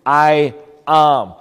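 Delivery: "I am" set apart, both words weighted; emphatic, deliberate "I am"; strong stress on "I am". Shown as a demonstration. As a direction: give "I" and "am" each a firm beat. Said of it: "puts a strong emphasis on the word".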